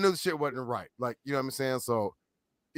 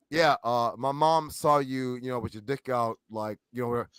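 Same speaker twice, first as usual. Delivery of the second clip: quiet wife voice; 6 semitones lower, 6 dB quieter than usual. Retold or imitated. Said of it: "My wife is like".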